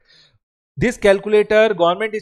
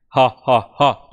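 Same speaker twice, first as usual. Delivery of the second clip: mock laugh; 7 semitones lower, much slower than usual. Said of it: "retailer will start laughing".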